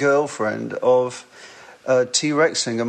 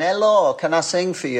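put-on northern English accent, pitched up; 5 semitones higher than usual. Imitating own childhood self asking in shops, northern accent. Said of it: "in my northern accent".

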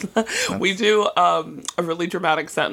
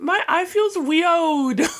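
put-on babyish toddler voice, very high and slow; 11 semitones higher than usual. Speaker retells complaining to their partner about their eye, imitating a toddler. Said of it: "saying it like a toddler".

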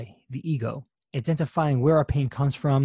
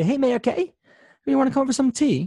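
very high-pitched, put-on English accent; 11 semitones higher than usual. A fan imagines the call they are waiting for, as Russell Brand in a put-on English accent. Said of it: "That's the best English accent I've got".

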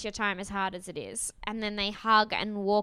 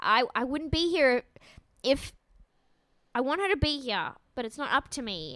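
put-on stutter, higher pitched; 4 semitones higher than usual. Retelling a man talking in a car: imitating someone stuttering. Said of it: "he's just stuttering".

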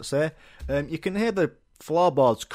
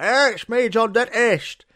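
very high, drawn-out stadium rock-star headliner voice; 10 semitones higher, 6 dB louder than usual. Retelling how the dentist greets the waiting room: imitating a rock star stage entrance. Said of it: "Like he's coming on to fucking Wembley".

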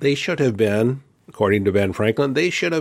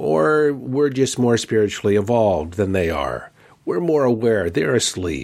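ordinary delivery

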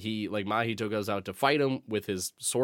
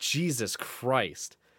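ordinary talk, nothing marked

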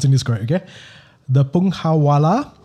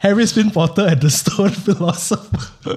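pitched-up speech through helpless laughter; 5 semitones higher than usual. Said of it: "Every single time I try to read out the title of this book, I laugh".

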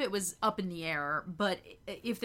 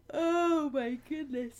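high, spoken right through a yawn; 7 semitones higher than usual. Chatting in the morning, yawning. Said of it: "sorry i'm yawning".

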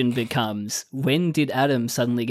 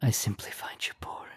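put-on whisper, quieter; 2 semitones lower, 7 dB quieter than usual. Repeating a line an actor whispered in a scene: imitating David's whisper. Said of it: "David, like, whispers it".

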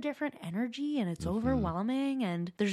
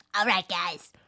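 loud, belted cartoon-character voice; 2 semitones lower, 5 dB louder than usual. Opening a segment for a co-host, doing a Cartman voice. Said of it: "Do you feel like I'm doing a good Cartman?".

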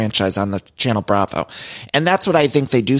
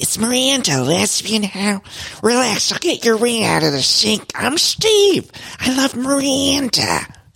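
exaggerated, stretched, overdone voice pushed very high; 10 semitones higher than usual. Discussing an actor's vocal choices for a character losing his hearing, doing a Steve impression. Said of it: "the vocal aerobics".

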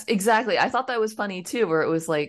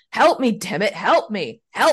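play-acted, exasperated, fed-up shouting; 4 dB louder than usual. Retelling a story of a trapped soldier calling to his friends; retelling a yell for help. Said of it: "He's just yelling at his friends".

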